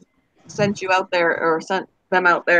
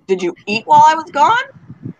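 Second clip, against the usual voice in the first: lightly mimicked husband, pitch lifted; higher, incredulous quote of a husband; husband's question; 6 semitones higher, 4 dB louder than usual. Husband questioning wife when he gets home, mildly mock incredulous.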